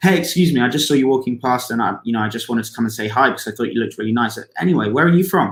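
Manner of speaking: rushed, run-together words, no pauses. Demonstrating a poor way to approach a stranger walking past, rushed. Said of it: "So when you slow it down".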